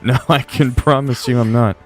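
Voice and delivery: ordinary delivery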